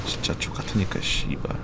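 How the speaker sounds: cursing under breath; whispered cursing. Real, not acted. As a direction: hiss the swear softly. Cursing quietly at game. (숨죽여 욕하기)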